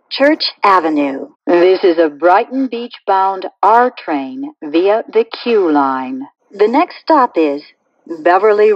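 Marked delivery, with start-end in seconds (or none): 1.5-6.3 recorded subway announcement stitched from clips; choppy prerecorded train announcement with pasted-in station names; spliced together words. Acted.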